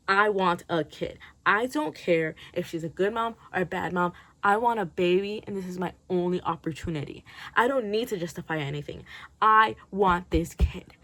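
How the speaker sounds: a hint of a desperate would-be mother, dragging out the last line; imagined Polly. She imagines Polly owning her wish, mildly insistent. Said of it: "justify it by saying".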